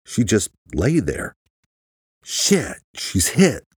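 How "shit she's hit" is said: high-pitched, startled realization; alarmed thought. A narrator's reading. Luke seeing Chaz lie still, alarmed. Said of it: "Luke thought to himself".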